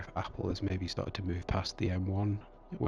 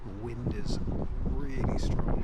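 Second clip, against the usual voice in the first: raised voice over pouring rain; shouting over wind; 4 semitones higher, 6 dB louder than usual. Real, not acted. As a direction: call it out loud against the wind. Outdoors in wind and heavy rain.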